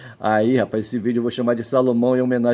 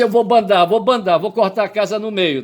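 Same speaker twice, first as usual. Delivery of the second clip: high, louder "vou bandar"; judge's raised threat; 9 semitones higher, 5 dB louder than usual. Retold or imitated. The judge in his own case declares the house split, raised. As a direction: announce the split forcefully. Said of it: "O juiz disse".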